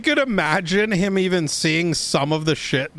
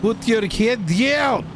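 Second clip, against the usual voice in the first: slow, raised command, much higher; shouted order; 10 semitones higher, slower than usual. Real, not acted. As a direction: bark it slowly so they hear. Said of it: "I have no idea what you said".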